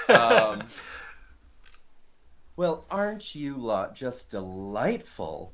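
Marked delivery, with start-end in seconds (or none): 2.6-5.5 sarcastic. Acted. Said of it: "That was sarcasm".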